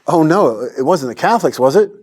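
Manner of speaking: a hammed-up gasp of dread; alarmed mother. Mom asks her son about church, mock alarmed. Mother fears Catholic answer.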